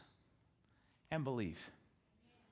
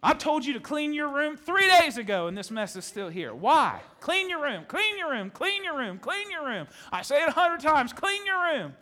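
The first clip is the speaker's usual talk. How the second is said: put-on loud, high, exasperated yelling at a messy kid; yelling parent; 8 semitones higher, 8 dB louder than usual. A parent yelling at their child about the messy room, high and loud. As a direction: scold like a fed-up mom, pitch way up.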